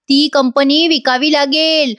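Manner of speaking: slow, drawn-out pronouncement; slow warning. Retold or imitated. Grandmother warns Sumitra about losing the company, slow warning. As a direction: state it slowly as a warning.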